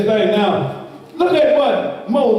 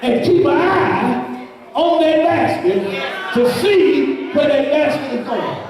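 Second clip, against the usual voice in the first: mother's order to daughter; 3 semitones higher than usual. Acted. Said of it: "She told her daughter, she said".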